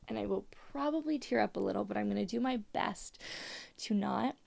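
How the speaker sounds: creaky vocal fry; talking in creaky fry. Real, not acted. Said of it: "I have such bad vocal fry right now".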